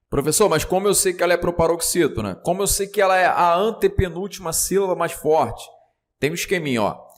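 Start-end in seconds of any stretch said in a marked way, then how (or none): 0.1-5.6 higher, quicker student question; aluno perguntando. Acted. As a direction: ask eagerly fast, as a student quizzing the teacher. (aluno perguntando, mais agudo e apressado)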